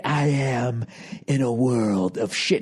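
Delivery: lightly voiced slow grim soldier; a hint of the Full Metal Jacket line, slowed; movie quote impression. Quoting the movie to mock the slouching investor. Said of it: "Full Metal Jacket".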